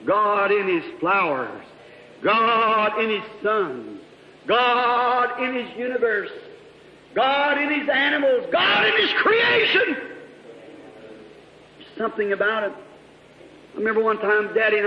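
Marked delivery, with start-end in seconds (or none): 0.0-10.0 building litany. Acted. Preacher to brethren, litany swelling to shout.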